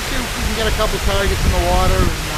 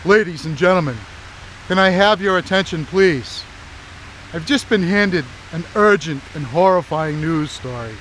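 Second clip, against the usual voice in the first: booming mock announcer; loud, formal public announcement; 3 dB louder than usual.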